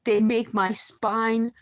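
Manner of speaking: words dragged out through a sore throat; strained voice. Real, not acted. Telling viewers his voice is damaged, strained and slow. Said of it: "my voice will be better".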